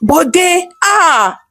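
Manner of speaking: high startled cry of his name; shocked scream. Acted. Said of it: "Arolake recognized that voice and screamed".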